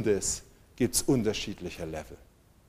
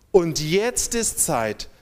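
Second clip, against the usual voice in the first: slow climax; 3 semitones higher, slower than usual. Acted. Preacher builds to climax.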